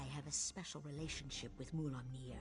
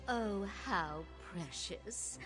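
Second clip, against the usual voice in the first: slow, condescending amusement; sarcastic; much slower than usual. Acted. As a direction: purr it with scorn. Queen mocks the bodyguard.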